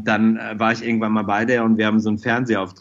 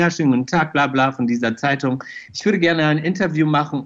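mock journalist; 4 semitones higher than usual. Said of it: "du tust so, als wärst du von irgendeiner Zeitung".

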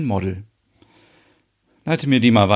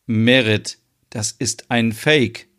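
empört; slower than usual. Acted. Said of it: "Reika ist empört".

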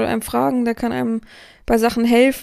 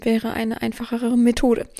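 ordinary talk, nothing marked

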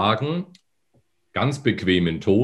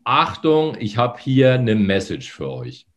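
slack palate voice; 3 semitones higher than usual. Shown as a demonstration. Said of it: "mit hängenden Gaumen hinten".

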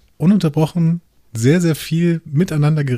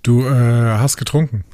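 langsam und vorwurfsvoll. Acted. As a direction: wie eine Anklage sagen. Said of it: "Das klingt so vorwurfsvoll". (vorwurfsvoll fragen)

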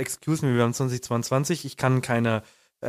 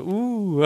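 higher-pitched teasing audience ooh; crowd's ooh; 6 semitones higher than usual. Retold or imitated. Comic retells the audience's reaction to undressing, mimicked ooh.

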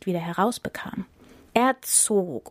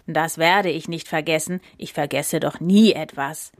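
lower, self-satisfied elephant; smug elephant boasting to the lion; haughty; 3 semitones lower than usual. Acted. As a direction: say it proudly, looking down on everyone. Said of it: "sagte der Elefant hochmütig".

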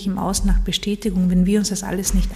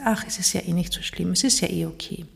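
soothing inner voice; 5 dB quieter than usual. Retold or imitated. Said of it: "das ist die Stimme, die sagt".

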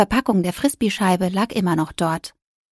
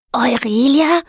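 higher, louder cat's mew; mewing cat call; 4 semitones higher, 5 dB louder, slower than usual. Acted. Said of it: "maunzte Zenturo". (Kater maunzt ihren Namen)

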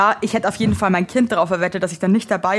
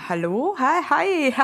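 awkward hello; 5 semitones higher, much slower than usual. Retold or imitated. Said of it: "Und ich dann so".

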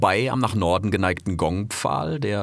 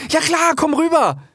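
very high, loud, "klar" falling firmly; young fox waving his friend over, high and loud; eager young fox; 7 dB louder than usual. Acted. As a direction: say yes gladly, "klar" dropping down. Rix answers Karl.

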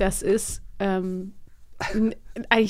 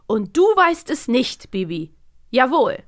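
mock stern father; 3 semitones higher, slower than usual. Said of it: "Oder B".

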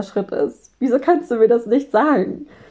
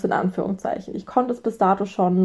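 usual speaking voice

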